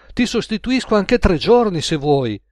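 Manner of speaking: high, eager offer; exclaiming. A narrator's reading. Colleague now happy to cover for Gaetano, exclaiming. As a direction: jump in keenly, voice lifted. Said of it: "esclamò Edoardo".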